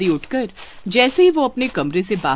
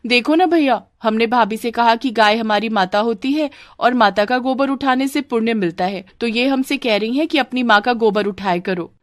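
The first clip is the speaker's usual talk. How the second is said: slightly raised, whining tattle; complaining sister; 4 semitones higher than usual. Acted. Sister tells brother on the bride, mildly plaintive complaint. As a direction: tattle on someone to big brother.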